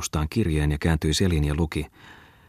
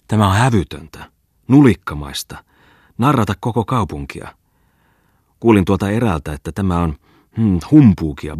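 put-on louder, outraged old man scolding; indignant old postmaster; 3 semitones higher, 5 dB louder than usual. Old postmaster fuming to Muttinen and Tommola, louder. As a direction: huff and puff about the hoax.

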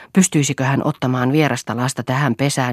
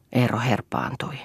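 usual speaking voice

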